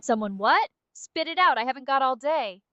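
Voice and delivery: put-on impatient British accent; brisk British nudge to get moving; British Aria. Game sidekick hurrying the player to drop, impatient British. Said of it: "how was British Aria's day?".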